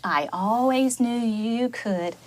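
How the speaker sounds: Mama duck praising her little one tenderly; tender mother. Acted. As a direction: reassure him gently. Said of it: "Mama said".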